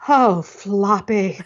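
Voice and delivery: drawn-out tragic little sigh; mock baby melodrama, slowly; dramatic toddler. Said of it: "she looks up and she goes".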